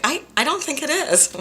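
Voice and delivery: timid high-pitched self-quote; meek reply. Retold or imitated. To the therapist, a meek high-pitched objection. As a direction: answer small and high, unsure. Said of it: "And I was like".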